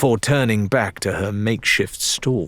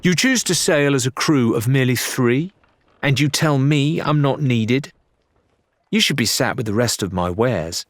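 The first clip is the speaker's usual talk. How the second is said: supercilious; 4 semitones higher than usual. Acted. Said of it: "She adopted a supercilious air".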